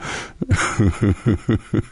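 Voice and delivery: imitated chuckle with a Southern twang; Southern-accented laugh. Coach imitating a colleague, laughing in a Southern accent. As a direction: laugh like a big Southern man. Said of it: "He's got a Southern accent".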